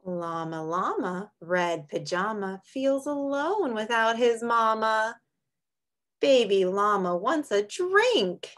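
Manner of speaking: sing-song picture book read; reading to children. Acted. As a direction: read it gently to little kids. Reads a picture book aloud.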